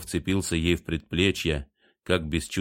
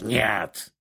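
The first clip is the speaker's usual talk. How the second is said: whisper yelling; 4 semitones higher than usual. A narrator's reading. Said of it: "яростно прошипел кот".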